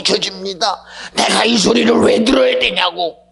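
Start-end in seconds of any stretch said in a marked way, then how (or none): none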